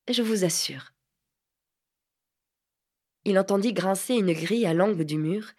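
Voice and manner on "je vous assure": whisper. Acted. Lady coaxing him to stay.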